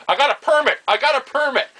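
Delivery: high, loud mock protest; retold defiant shouting. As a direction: imitate yelling back at an angry neighbour. Old man answers yelling neighbour.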